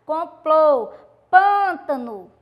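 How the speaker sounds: complô and pântano said loudly, with closed ô and â; careful classroom pronunciation; teacher demo words. Shown as a demonstration. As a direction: model each word loud and slow. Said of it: "do mesmo jeito".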